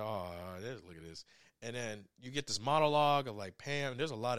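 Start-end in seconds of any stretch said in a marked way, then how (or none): 0.0-1.2 tag. Retold or imitated. She's just reminiscing. She's like.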